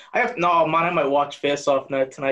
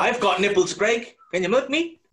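lightly voiced De Niro, rising higher; De Niro line; 4 semitones higher than usual. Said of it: "my favorite De Niro line".

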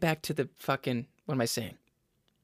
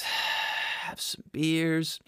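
usual speaking voice

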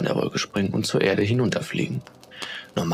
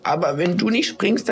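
very high little piping voice; desperate squeak; 8 semitones higher than usual. A narrator's reading. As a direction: plead in a tiny, high squeak. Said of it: "Da piepste eine andere Schneeflocke".

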